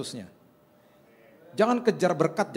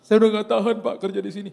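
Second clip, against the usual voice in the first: louder, higher mock-tearful outburst; imitated crying; 4 semitones higher, 6 dB louder than usual. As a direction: act out a driver breaking down in tears. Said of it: "Tiba-tiba dia nangis". (menirukan orang menangis)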